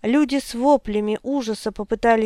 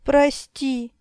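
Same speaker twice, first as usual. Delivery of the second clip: anguished plea; 4 semitones higher than usual. A narrator's reading. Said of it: "Её голос звучал, как предсмертный стон".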